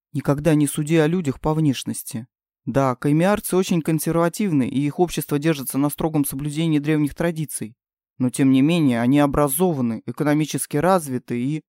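a hint of a stern king. King's voice again.

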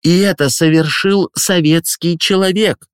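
high, proud ceremonial speech; proud headmistress. Acted. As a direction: swell with pride. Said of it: "с гордостью продолжал речь директор".

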